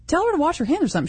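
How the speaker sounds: high, fast appalled remark; appalled onlooker. Retold or imitated. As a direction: blurt it out, appalled. Imagined onlooker's reaction.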